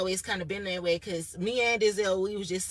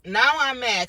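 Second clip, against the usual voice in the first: louder and higher, mock-fuming; angry burst; 4 semitones higher, 9 dB louder, slower than usual. Retelling being accused of stealing, angry burst. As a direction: blow up on the word now.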